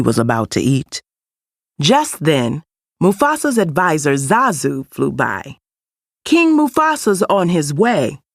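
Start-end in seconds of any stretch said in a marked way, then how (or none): 6.2-8.2 a bird herald calling out, raised pitch; announcing. A narrator's reading. Zazu the advisor announcing the king's arrival, heralding. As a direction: proclaim it like a royal herald. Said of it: "he announced".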